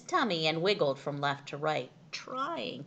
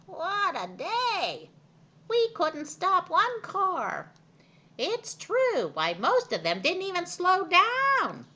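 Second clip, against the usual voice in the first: worn-out hens; 13 semitones higher, 7 dB louder than usual. A narrator's reading. Exhausted hens complaining about the cars. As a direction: sigh out the failure like weary hens.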